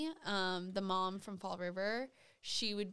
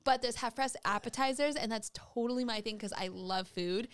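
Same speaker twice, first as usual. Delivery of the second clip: Rebecca voice; 2 semitones higher than usual. Retold or imitated. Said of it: "that right there was Rebecca".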